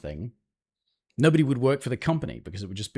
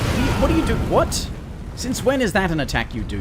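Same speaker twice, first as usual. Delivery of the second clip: loud outraged yelling; angry shout; 9 semitones higher, 4 dB louder, faster than usual. Real, not acted. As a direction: shout in disbelief at the game. Raging at the boss's attack.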